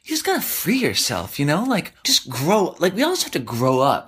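high, mocking preachy voice; high, mocking know-it-all voice. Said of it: "start spouting off about".

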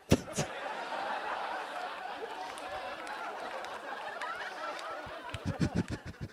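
high, breathless desperate laugh; forced manic laugh. Acted. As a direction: laugh hysterically, trying to stay cheerful. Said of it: "trying to stay positive while living in a haunted house".

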